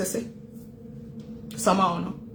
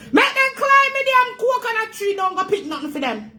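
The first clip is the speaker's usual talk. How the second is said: mocking scorn; 14 semitones higher, 4 dB louder than usual. Real, not acted. Mocking emigrants showing off.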